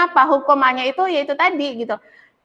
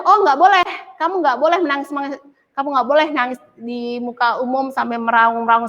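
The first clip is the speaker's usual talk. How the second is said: scolding parent. Retold or imitated. Parent scolding a child who cries in public, mock stern. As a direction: scold the crying child, then settle.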